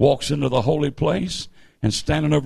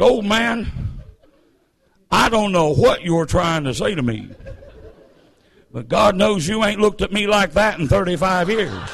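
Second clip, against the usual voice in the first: raised-pitch comic wife's retort; wife putting her old man in his place; exasperated old wife; 5 semitones higher than usual. Acted. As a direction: scold your husband in a hammed-up voice. Acts wife answering her speechless husband.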